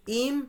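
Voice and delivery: "im" as one isolated, held syllable. Shown as a demonstration. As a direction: sound out "im" alone, then pause. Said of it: "এটা syllable আকারে পড়বো আমরা".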